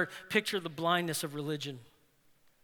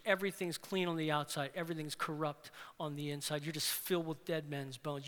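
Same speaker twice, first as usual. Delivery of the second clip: special tone; 3 semitones lower, 6 dB quieter than usual. Acted. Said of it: "Jesus saved a special tone of voice for these guys".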